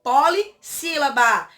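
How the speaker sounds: "Polissílaba" slowly, in separate chunks poli, sílaba; syllables drawn out. Shown as a demonstration. Teacher answers her own question, "Polissílaba" slowly in chunks. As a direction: stretch out "Polissílaba" with a break after poli. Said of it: "Então, ela é o quê?".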